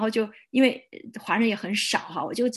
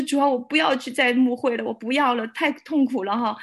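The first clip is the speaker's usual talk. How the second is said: tearful plea; 3 semitones higher, 3 dB louder than usual. Retold or imitated. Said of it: "真的就开始哭了".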